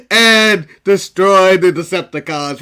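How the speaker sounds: low, slow robot leader voice; slow Optimus voice. Retold or imitated. Imitating Optimus Prime to cohost, low slow robot voice. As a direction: drag it out like a giant robot. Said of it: "how slow he talks".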